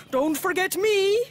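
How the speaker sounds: lightly voiced pleading dog; a hint of a worried dog; dog's plea. The dog asking granddad not to leave him, lightly voiced.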